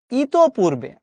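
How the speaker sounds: ইতপূর্বে said with a clear final fall as the right form; the right ইতপূর্বে, settled; correct form. Shown as a demonstration. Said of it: "না". (শুদ্ধ রূপ ইতপূর্বে)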